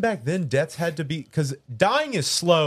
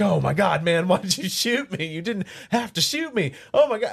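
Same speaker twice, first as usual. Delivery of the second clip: wounded soldier gasping; 4 semitones higher than usual. Pretend. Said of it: "screaming and pleading".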